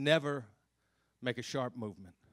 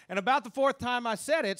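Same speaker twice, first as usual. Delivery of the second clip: emphatic retelling; 10 semitones higher, 8 dB louder than usual. Retold or imitated. Fourth repeat, exasperated storytelling.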